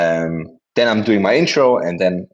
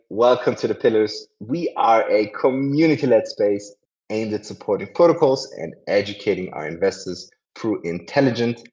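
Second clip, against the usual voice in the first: host intro; 2 semitones higher than usual. Acted. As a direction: welcome everyone like a show host. Host reads the show intro.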